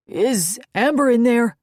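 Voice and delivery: loud call through a door. Acted. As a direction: raise the voice to be heard. Calling through closed door.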